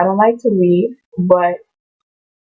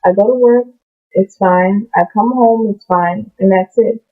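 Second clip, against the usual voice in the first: mock everyday person. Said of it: "we're like".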